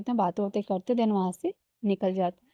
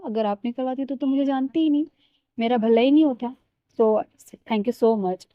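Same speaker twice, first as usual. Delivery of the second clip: mock-grateful, rising to louder by the end; sarcastic thanks; 2 semitones higher, 5 dB louder than usual. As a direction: thank her with exaggerated fake gratitude. Sarcastic thanks to annoying friend.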